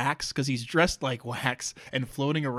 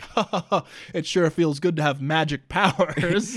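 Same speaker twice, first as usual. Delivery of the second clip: mock gloating laugh; 2 semitones higher, 3 dB louder than usual. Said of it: "he's like".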